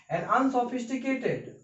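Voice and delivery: drawn out, syllable by syllable; slow dictation. Shown as a demonstration. Teacher dictating a hard word to students, slowly. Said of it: "teacher dictating slowly".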